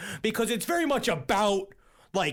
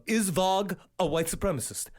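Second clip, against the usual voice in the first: Varg; 2 semitones lower than usual. Retold or imitated. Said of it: "begins every YouTube video just like that".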